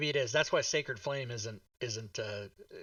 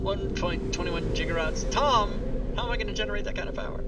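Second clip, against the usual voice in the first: high voice, building to a loud outcry; frantic movie impression; 5 semitones higher, 4 dB louder than usual. Player quoting a film scientist, frantic high impression.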